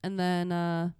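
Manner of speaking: hoarse from a cold; raspy, sick throat voice. Real, not acted. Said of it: "That's why I sound like a".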